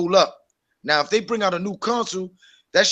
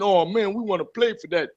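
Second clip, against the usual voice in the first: mock begging fan; 4 dB louder than usual. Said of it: "your Sony brothers petitioning".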